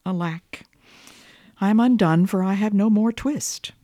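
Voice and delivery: hammed-up woe; tailor's lament. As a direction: wail it like a ruined old tailor. Tailor laments lost twist.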